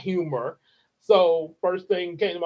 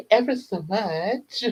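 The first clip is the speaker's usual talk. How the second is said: put-on holy girl voice; 2 semitones higher, slower than usual. Shown as a demonstration. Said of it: "holy Catholic girl".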